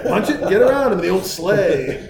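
lightly voiced movie dad, hyped up; Clark. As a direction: rev up as you justify passing, stretch the last words. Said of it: "He's like".

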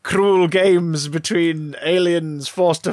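slow, portentous narration; mock trailer voice. Host narrating the Death Zone like a game trailer. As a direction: intone it like a trailer.

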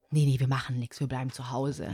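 low, soft deadpan friends' voice; lightly voiced lazy friends; mock friends' consensus. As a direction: mumble it like bored friends staying in. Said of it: "im Freundeskreis so der Konsens".

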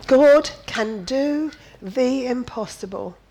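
booming preacher's declaration; loud proclamation. Real, not acted. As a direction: ring it out loud over the room. Preacher proclaiming after long pause.

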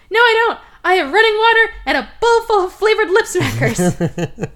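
high, loud defiant yell through the door; defiant shout. Retold or imitated. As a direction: shout back, refusing to come out. Locked in bathroom, refusing to leave.

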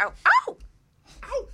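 high, loud cheering "ow ow"; playful whoop. Real, not acted. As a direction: whoop like a fan at a show. Cheering the host's sexy intro.

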